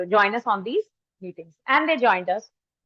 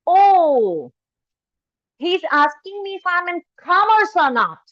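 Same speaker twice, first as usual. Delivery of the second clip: louder drawn-out oh, then higher-pitched imitated daughter; dawning realisation; 4 semitones higher, 4 dB louder, slower than usual. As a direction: act out a daughter suddenly catching on. Daughter finally understands the question.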